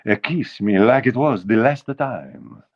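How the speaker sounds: crooning in a mock Italian accent. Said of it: "that guy had an Italian accent".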